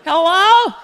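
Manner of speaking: mom answering the phone. Retold or imitated. Mom answers a ringing phone, high mock call. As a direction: imitate mom calling out into the phone. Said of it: "my mom's like".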